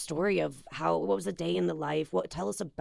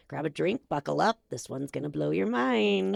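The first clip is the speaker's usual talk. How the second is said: smoker's rasp. Real, not acted. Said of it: "heavy, sexy smoker's voice".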